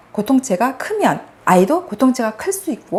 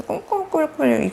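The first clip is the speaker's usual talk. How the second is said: lazy grumbling grunt; 6 semitones higher, 5 dB quieter, slower than usual. Retold or imitated. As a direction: grunt it like a sulky kid who won't get up. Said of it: "이러고 있어요". (귀찮아하는 꿀꿀 소리)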